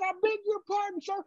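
high-pitched mock Texan cowboy; thick Texan accent. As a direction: cut in with a hammed-up Texas twang. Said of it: "and this thick accent".

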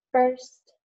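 first said slowly to show its vowel; vowel demonstration. Shown as a demonstration. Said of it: "this sound when they say first".

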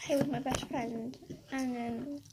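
real upset, softly holding back tears; small, upset voice with halting pauses; about to cry. Real, not acted. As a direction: speak softly, close to crying. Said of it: "Sorry, I'm gonna cry".

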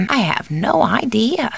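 lilting, with "no" lifted; animated take. Acted. Housekeeper has no answer, animated lilt. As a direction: swing the pitch up on "no". Alternate takes of stock line.

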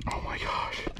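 soft, breathless whisper; stunned whisper. Real, not acted. Angler overwhelmed by his catch, stunned whisper. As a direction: whisper it, spent from screaming. Overwhelmed after landing the giant.

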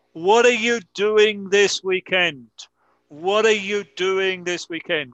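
"What are you doing this weekend" linked smoothly, "are" reduced; model pronunciation. Shown as a demonstration. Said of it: "Listen to how I pronounce the question".

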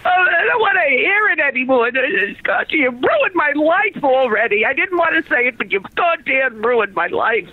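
bitter scolding. Acted. Mother berates son.

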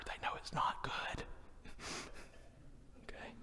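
unvoiced whisper on it's not good; a parent's ominous whisper. Shown as a demonstration. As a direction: hush it like a warning to the kids. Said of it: "if they hear me whisper".

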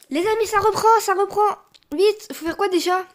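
high, excited warning; urgent alarm. Real, not acted. Player warning friends the round restarts, urgent alarm. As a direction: alert your friends that it is starting.

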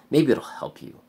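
sarcastic shout. Real, not acted. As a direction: throw it out as a bitter jab. Bitter sign-off after ebook plug.

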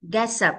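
"Gets up" joined into one word; linked sounds. Shown as a demonstration. Teacher shows children linking, "Gets up" run together. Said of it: "Mình nối âm qua".

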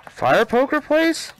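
exasperated high, slow question; incredulous. Real, not acted. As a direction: stretch the words out in open disbelief. Incredulous at crowbar in odd place.

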